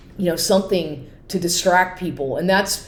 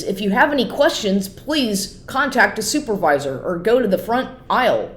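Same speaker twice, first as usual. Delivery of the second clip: higher, mock loudspeaker announcer; store announcer voice; 3 semitones higher than usual. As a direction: imitate the goofy man on the store speaker. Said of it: "It's a voice of a man".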